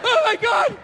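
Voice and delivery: high-pitched, put-upon dieter voice; miserable dieter. Acted. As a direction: play a starving model at the end of their rope. Acted starving dieter turns down cake.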